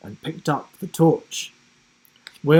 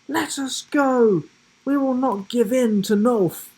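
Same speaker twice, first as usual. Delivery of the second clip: defiant cry; 12 semitones higher, 6 dB louder than usual. A narrator's reading. Caged giraffe defies captors.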